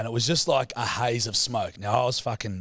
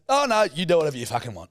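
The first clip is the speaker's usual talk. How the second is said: salty dad; 6 semitones higher, 4 dB louder, faster than usual. Retold or imitated. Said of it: "He goes".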